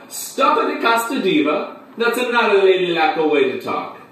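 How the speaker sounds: high-pitched scolding yell; clown's yell. Acted. Clown scolding the screaming newcomer, high theatrical yell. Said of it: "and, and he yelled".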